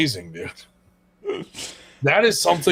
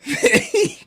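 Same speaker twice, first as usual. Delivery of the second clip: mock baffled Brit; much slower than usual. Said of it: "We'll be like".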